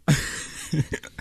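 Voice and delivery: one sharp click of the tongue. Shown as a demonstration. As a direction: click the tongue against the palm. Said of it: "that was a solid tongue click".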